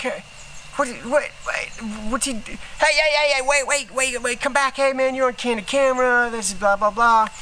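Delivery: high, hurried calls of hey and wait; frantic call back. Retold or imitated. Show staff calling the man back, high and frantic. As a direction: chase him down before he leaves. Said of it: "the people on Candid Camera are like".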